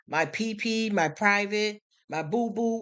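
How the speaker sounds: high, babyish mock of kids' words; mock child voice. Mocking how kids are taught to name private parts, childish voice. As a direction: lightly mimic a little kid naming body parts.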